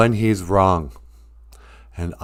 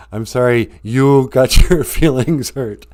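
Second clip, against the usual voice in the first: mock passive-aggressive. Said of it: "passive-aggressive thing".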